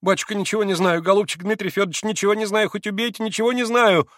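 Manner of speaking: high, pleading frightened maid; frightened swearing. A narrator's reading. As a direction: swear to him in fear. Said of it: "заклялась, забожилась Феня".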